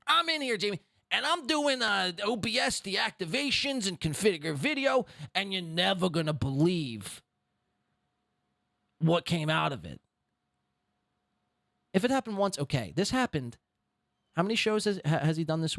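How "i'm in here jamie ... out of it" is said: put-on New York accent. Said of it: "New York accent".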